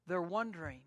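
usual speaking voice

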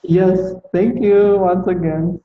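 normal talking voice

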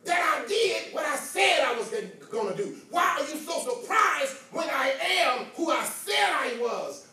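voicing Jesus. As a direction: speak as the risen Lord, challenging.

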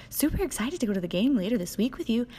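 hammed-up enthusiastic texter; mock over-eager. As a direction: bounce it like an overexcited puppy. Reading the over-eager guy's text.

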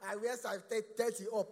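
loud, slow mock girlfriend; hammed-up swoon; gushing girlfriend. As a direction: drag out the sizes coyly. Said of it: "So, uh".

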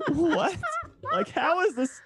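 high-pitched, baffled protest; mock incredulity. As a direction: act out disbelief at a ridiculous assumption. Acts out incredulous reaction to stereotype.

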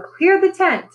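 high, loud command; calling out. A narrator's reading. Strongman shouting over the chaos. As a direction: order the tent cleared.

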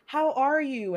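high, bright sing-song greeting mocked; mock cheery coworker. Mocking coworkers greeting her on Zoom, high and chirpy. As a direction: parrot the Zoom colleagues' chirpy hello. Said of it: "everyone's like".

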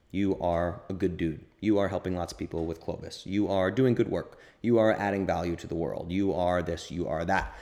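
calm, kind affirmations to yourself; kind self-talk. Shown as a demonstration. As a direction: tell yourself gently you're good. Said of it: "he's being quite kind to himself".

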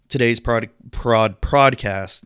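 stumbling over the word; tongue-tied stumble. Real, not acted. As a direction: trip over the word, restart twice. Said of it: "Fuck you, tongue".

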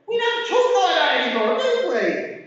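fast loud emphasis. Real, not acted.

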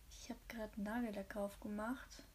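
soft unvoiced whisper; leaning in to whisper. Real, not acted. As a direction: whisper it close to the mic. Aside while painting nails.

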